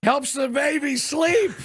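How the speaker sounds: deadpan joke. Acted. Joking about drinking while pregnant.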